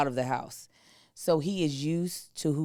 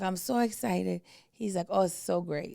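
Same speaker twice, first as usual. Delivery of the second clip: imitating Asian accent; 4 semitones higher than usual. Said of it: "he's got a thick accent".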